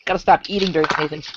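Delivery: chewing while talking; words muffled by food in mouth; mouth full. Real, not acted. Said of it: "I've got food in my mouth".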